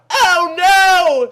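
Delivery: high, loud "Oh no!"; scream. Acted. Kelly hears the fire, screaming in fright. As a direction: cry out in alarm. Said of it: "screamed Kells".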